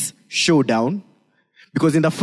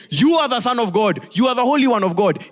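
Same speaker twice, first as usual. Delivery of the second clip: high-pitched, insistent cry; mock demon yell; 8 semitones higher than usual. Preacher quoting demons hoping to derail Jesus, high mock yell. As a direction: pitch it high and press on, half yelling. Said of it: "They are yelling".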